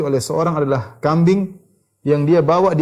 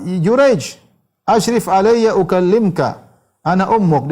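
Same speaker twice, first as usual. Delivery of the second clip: higher, louder call to her son; mother calling out; 5 semitones higher, 4 dB louder, slower than usual. Retold or imitated. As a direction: call up to the hermitage like a longing mother. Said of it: "Kemudian ibunya berteriak".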